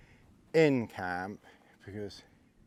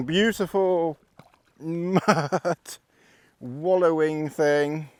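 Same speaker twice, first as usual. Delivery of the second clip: excited dog talk; 6 semitones higher, 9 dB louder than usual. Real, not acted. Cheering the dog on in mud.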